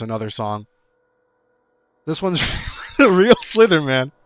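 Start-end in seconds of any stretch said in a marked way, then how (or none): 2.1-4.1 loud and high, hyping the next track; hyped announcement. Real, not acted. Introducing the next submitted song with loud hype. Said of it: "hyped intro of next song".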